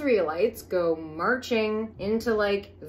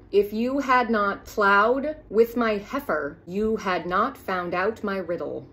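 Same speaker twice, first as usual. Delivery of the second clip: direct quote. Retold or imitated. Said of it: "direct quote".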